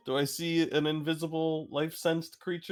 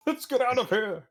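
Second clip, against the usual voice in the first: panicked shout; 9 semitones higher than usual. Acted. Player voices fleeing character.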